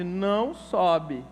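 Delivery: put-on slow, firm warning to a toddler; a father's slow, stern "Não sobe"; firmer no. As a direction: lay down the rule, slowly and firmly. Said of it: "Aí eu falei mais forte".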